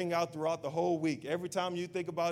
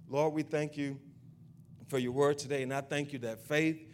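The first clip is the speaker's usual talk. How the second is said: rising, fervent prayer voice, louder as it builds; preaching prayer; 4 dB louder than usual. Acted. Pastor leading the congregation in a fervent closing prayer. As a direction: pray it out with growing force.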